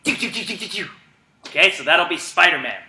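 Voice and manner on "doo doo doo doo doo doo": soft ticking doo doo; web slinger sound. Shown as a demonstration. Coach demonstrating Spider-Man webs: soft mock web sound. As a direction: flick out little web noises. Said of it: "So you go".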